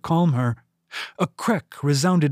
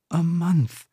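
voluptuary's stunned echo; 4 semitones higher than usual. Acted. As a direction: let it land, half to herself. Voluptuary repeats, absorbing the news.

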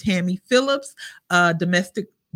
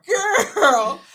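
choked up; 9 semitones higher, 6 dB louder than usual. Real, not acted. Overcome reading own book.

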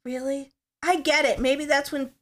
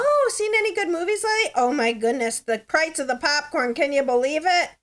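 small-talk chatter; 5 semitones higher than usual. Retold or imitated. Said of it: "So you'd be like".

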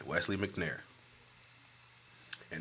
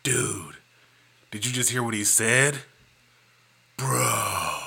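laid-back dude voice, a bit louder; dude guy Wesley; 4 dB louder than usual. Retold or imitated. Getting the friend's voice right, easygoing dude. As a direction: stretch out the dude. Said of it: "let me get my Wesley right".

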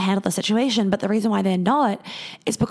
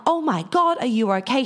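Oh my God jumps way up, then a worried question; imitating her own alarmed gasp; retold shocked concern; 4 semitones higher than usual. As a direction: react as if hearing your friend got hit. Her reaction to friend punched.

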